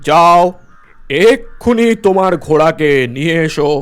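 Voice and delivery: angry headman ordering the villager out. Acted. Headman orders man to fetch horse.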